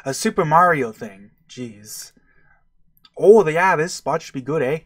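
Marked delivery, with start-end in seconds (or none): 3.2-4.8 attempted Canadian-style turtle accent. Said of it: "how do I do a turtle accent".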